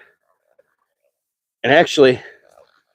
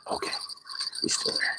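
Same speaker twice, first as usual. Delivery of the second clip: whispered check; 17 dB quieter, faster than usual. Real, not acted. Quietly checking on the fish.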